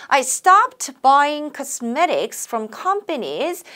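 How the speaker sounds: slow, phrase by phrase; chunked model reading. Shown as a demonstration. Teacher chunking a sentence for students, slow. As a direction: read in meaning chunks for learners. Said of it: "의미 단위로 끊어갑니다".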